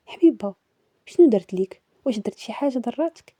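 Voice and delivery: imitating a partner's anxious questions, lightly acted; a touch of worried pleading; mildly fearful questioning. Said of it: "واش كيسولني بخوف". (سؤال بشوية ديال الخوف)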